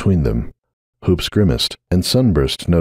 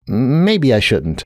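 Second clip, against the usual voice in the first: forced out slowly; 5 semitones higher, much slower than usual. Acted. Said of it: "Forcing each word out".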